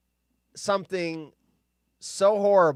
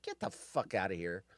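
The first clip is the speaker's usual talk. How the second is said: dismissive cat; 11 semitones lower, 14 dB quieter than usual. Retold or imitated. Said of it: "Cats are like".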